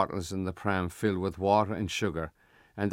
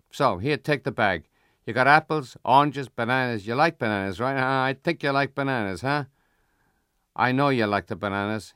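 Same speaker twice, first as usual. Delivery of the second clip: Italian shopkeeper; 3 semitones higher, 4 dB louder than usual. Acted. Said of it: "it's the Italian".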